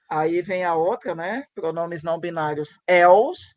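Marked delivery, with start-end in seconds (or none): 2.9-3.5 "els" in one syllable, vowel dropped, louder; vogal retirada. Shown as a demonstration. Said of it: "aí tira a vogal". ("els" sem a segunda vogal, mais forte)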